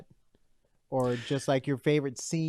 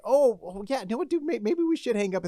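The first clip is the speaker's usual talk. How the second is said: higher-pitched retold reluctant goodbye; mock reluctance, pitched up; reenacted hesitation; 8 semitones higher than usual. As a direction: act out a half-hearted attempt to hang up. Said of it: "I'll be like".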